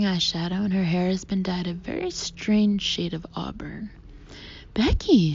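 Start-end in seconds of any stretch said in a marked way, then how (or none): 4.7-5.3 breathless. A narrator's reading. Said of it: "clasps her hands breathlessly".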